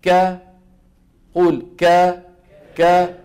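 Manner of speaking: ك said thin and forward with no echo; teacher demonstrating a thin ك; light kaf demo. Shown as a demonstration. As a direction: say ك light, sound going straight out. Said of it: "مثال".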